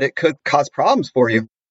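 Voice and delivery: ordinary talk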